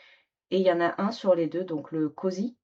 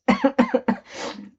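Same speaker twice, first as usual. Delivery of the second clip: coughing fit; 8 semitones higher, 5 dB louder than usual. Real, not acted. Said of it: "je m'étouffe en plus".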